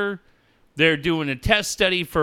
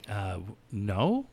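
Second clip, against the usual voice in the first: imitated caller; 6 semitones lower, 5 dB quieter than usual. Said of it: "She's like".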